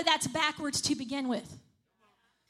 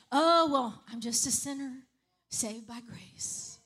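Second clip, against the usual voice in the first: mock pious quote; 3 semitones lower, slower than usual. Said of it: "A lot of times people say".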